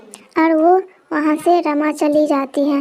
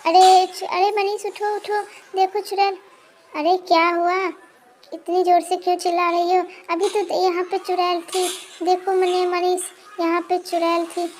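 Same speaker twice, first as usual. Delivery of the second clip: frightened whisper; 3 semitones higher than usual. Acted. Frightened wife wakes husband.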